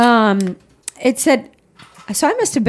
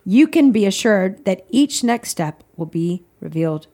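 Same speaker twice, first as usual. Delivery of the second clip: reading aloud. Acted. Reads devotional aloud.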